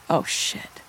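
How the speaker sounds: breathy whispered dismay under the breath; whispered curse. Acted. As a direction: hiss it to yourself in sudden realization. Cosima realizes anniversary.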